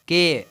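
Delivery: teacher punching out "के" on its own; syllable demonstration. Shown as a demonstration. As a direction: sound out "के" as a separate syllable. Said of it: "ए का भी sound produce हुआ".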